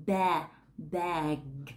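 "Ba, bag" with a wide open a; "bag" as /bæg/, open a, final g; bag demo. Shown as a demonstration. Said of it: "mở rộng miệng ra một chút".

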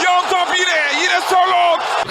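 screaming football commentator. Real, not acted. Commentator builds on cross.

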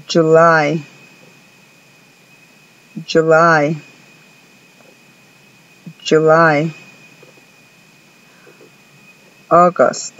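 month names said slowly one by one; model pronunciation. Shown as a demonstration. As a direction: clear English models. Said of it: "pongan atención a la pronunciación".

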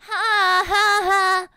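slow, loud mock laugh; fake laugh. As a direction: spell out a sarcastic ha ha ha. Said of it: "don't even pity laugh".

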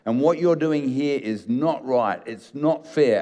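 slow, deliberate reproach; mild, understated accusation; accusing son. Retold or imitated. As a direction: wag a finger at the father. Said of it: "shaking his finger at his father and says".

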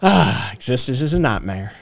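put-on Southern accent. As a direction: sigh it out in a Tennessee Southern accent. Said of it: "that is where my Southern accent comes from".

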